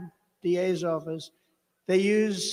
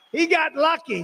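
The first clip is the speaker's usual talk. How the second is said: high, loud mocking emphasis on HE; emphatic repeat; 10 semitones higher, 8 dB louder than usual. Real, not acted. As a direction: repeat it much higher and louder, punching HE.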